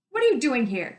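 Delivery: angry demand. Acted. Guard grabs girl, angry.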